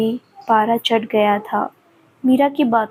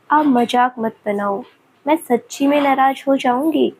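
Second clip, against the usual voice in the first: fake crying; 3 semitones higher than usual. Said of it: "और नकली रोना रोते हुए बोली".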